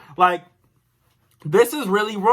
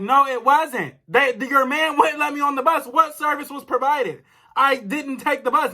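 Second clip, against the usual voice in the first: higher-pitched, indignant retold argument; mad; 4 semitones higher than usual. Caller disputing a bus charge with the bank, mad. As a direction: protest as if still on the call. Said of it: "I'm just mad".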